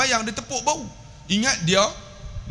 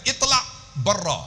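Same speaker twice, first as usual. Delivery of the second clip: imitated very angry Arab; 2 semitones higher than usual. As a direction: order them off crossly. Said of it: "Kalau dia marah sangat".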